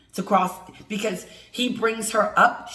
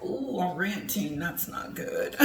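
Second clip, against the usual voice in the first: mock dismay; 7 dB quieter than usual. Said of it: "And I was like".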